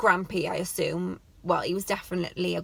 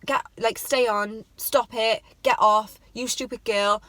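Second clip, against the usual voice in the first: mock angry grandad; 4 dB louder than usual. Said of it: "he was like".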